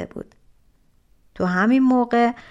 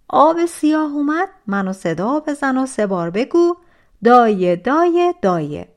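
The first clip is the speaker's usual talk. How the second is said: loud orders; 5 dB louder than usual. Acted. Giant gives the stepsister orders.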